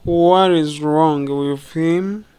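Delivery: slow "What is wrong with him", rising at the end; rising question intonation. Shown as a demonstration. Teacher modelling a question for learners, intonation rising. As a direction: lift "him" into a drawn-out question. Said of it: "The intonation goes up".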